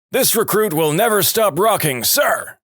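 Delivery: high, shouted recruit reply; recruit yell. Retold or imitated. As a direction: bark it back at full volume like a recruit. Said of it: "To which Law yelled".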